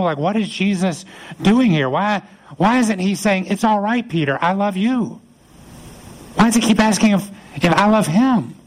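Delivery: acted anguish, questions rising high; inwardly tormented. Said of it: "Peter is really tormenting in his soul".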